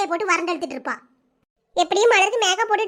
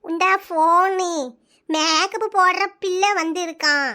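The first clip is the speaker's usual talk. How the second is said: put-on slow, lower, puzzled old granny on the phone; old grandmother; 4 semitones lower, much slower than usual. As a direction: drag each word like a confused grandma. Grandmother calling Malar.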